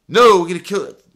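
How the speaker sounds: high, loud retold mobster threat; shouted insistence. Mobsters insisting on a killing, angry shout. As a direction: shout back over the objection.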